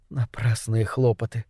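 low, soft sigh of disappointment. A narrator's reading. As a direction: let it out on a sigh. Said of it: "вздохнула она".

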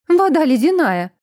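shouting while spluttering in water; swimming while talking. A narrator's reading. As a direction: gasp it out while thrashing in water. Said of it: "отплёвываясь и барахтаясь".

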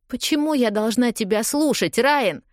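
yelling. A narrator's reading. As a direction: throw the question at him in despair. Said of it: "ору я".

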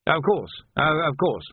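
put-on flustered old captain backing off; hurried. A narrator's reading. Old captain hastily accepting sergeant's explanation, hurried. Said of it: "said Tilden hurriedly".

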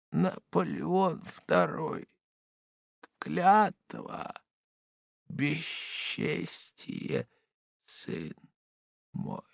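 slow, fading to near silence; barely intelligible. A narrator's reading. Dying father's last broken words to his son, fading out. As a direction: let the words die away. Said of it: "почти непонятны".

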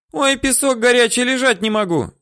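high, loud whine; woman pinned to hot sand complaining; whining woman. Acted. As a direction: wail it in a high old-woman voice.

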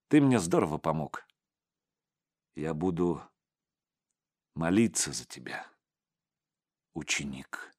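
sincere and grave, quieting at the end; serious. A narrator's reading. Teacher thanks his pupil at parting, gravely serious. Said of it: "серьёзно сказал Зимородинский".

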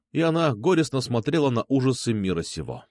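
usual speaking voice

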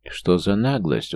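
slow indignant countess; outraged, drawn out. Acted. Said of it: "возмутилась графиня". (возмущённо)

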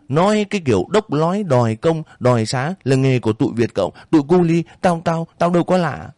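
landlady sneering at the cowherd; suspicious landlady. Acted. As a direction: catch him out like a nasty landlady. Bảy Vàng sneering, stammering.

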